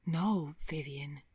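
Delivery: slow, sorrowful denial; sad. Acted. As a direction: let it fall slowly with regret. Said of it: "he said sadly".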